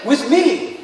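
firm, insistent preacher's rendering; pushing back. Acted. Jesus answers Martha's despair, pushing back firmly. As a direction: push back against her despair. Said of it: "begins to argue or push back".

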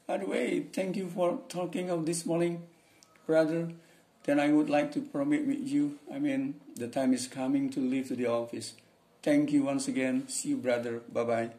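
playing the friend in a textbook dialogue, brighter; dialogue role reading. Reads second dialogue role.

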